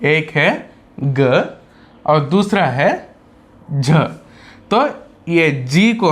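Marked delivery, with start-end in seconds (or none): 1.0-1.6 "ग" as a lone short guh; letter sound. Shown as a demonstration. Teacher giving the first way to pronounce G, letter sound. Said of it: "दो तरह से यहाँ पर pronounce करते हैं". 3.7-3.9 "झ" as a lone short juh sound; letter sound. Shown as a demonstration. Teacher giving the second way to pronounce G, letter sound. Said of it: "दो तरह से यहाँ पर प्रोनाउंस करते हैं".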